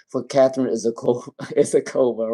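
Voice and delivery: name broken by a laugh. Real, not acted. Reader apologizing to a client, laughing at the live stream. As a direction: stumble into laughter and retry the name. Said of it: "I'm laughing at the live stream".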